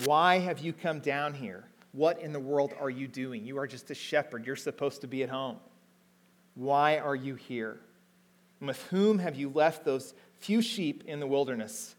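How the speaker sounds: half-acted rebuke of a younger brother; angry older brother. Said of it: "he became angry with David".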